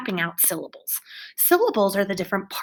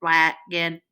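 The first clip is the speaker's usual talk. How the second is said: "Wagon" in two level, disconnected beats; robot voice; 2 semitones lower than usual. Shown as a demonstration. Teacher plays robot, "Wagon" in mechanical robot beats.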